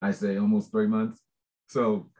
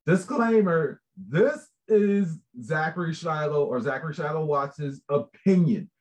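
mock disclaimer; 4 semitones higher than usual. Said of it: "So I said".

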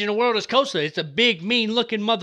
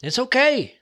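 reassuring dad; 4 semitones higher than usual. Retold or imitated. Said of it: "I told him, I said".

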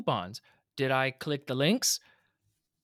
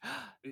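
jaw crack gasp; 11 semitones higher, 10 dB quieter than usual. Real, not acted. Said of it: "That was gross".

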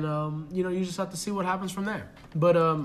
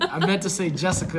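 tipsy and giggly; laughing a little tipsy. Real, not acted. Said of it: "I'm a little tipsy right now".

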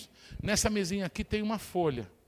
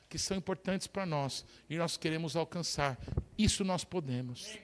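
gentle invitation; 2 semitones lower, slower than usual. Acted. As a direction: coax them into praying together. Calm pastoral invitation.

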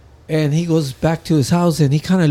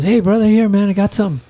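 high, louder friendly offer; friend's voice; 5 semitones higher, 4 dB louder than usual. Retold or imitated. Friend offering mushrooms on New Year's Eve, high eager voice.

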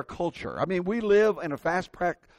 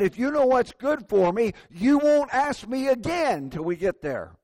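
mildly stern warning, a bit higher; scolding mother; 4 semitones higher, 3 dB louder than usual. Retold or imitated. Mother warning her son not to ask again, scolding. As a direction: lay down the law as a retold mom. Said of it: "she scolded him and said".

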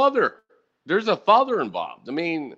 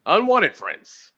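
slow, drawn-out "Unwanted friends"; dragged-out deadpan tag line; slow deadpan punchline; 3 semitones higher, much slower than usual. Real, not acted. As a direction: let each word hang for the joke. Punchline after a pause.

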